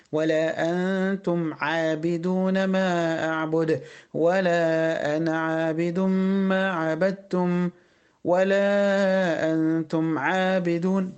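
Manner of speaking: slow, measured tajweed recitation; Quran recitation. Acted. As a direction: recite slowly, meems clear. Recites verses.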